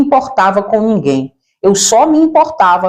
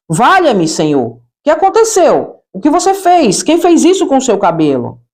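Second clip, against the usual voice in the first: aunt's cry of alarm, pitched up; shocked aunt; 3 semitones higher than usual. Retold or imitated. Aunt sees the niece's new blonde hair, alarmed cry. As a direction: act out the aunt gasping in horror at the hair. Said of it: "Ela disse".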